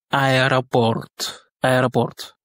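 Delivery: aéroport said as Russian "a-e-ra-PORT"; O pronounced A. Shown as a demonstration. Teacher applies the unstressed O rule, O pronounced A. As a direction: say aéroport with "ra" for the first o. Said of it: "il se prononce comme un A".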